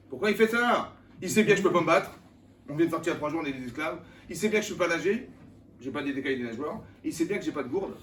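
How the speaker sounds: loud, high indignant protest; desperate complaint. Retold or imitated. Trapped Hebrew complains loudly to God about his plight. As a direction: protest that God knows you're helpless.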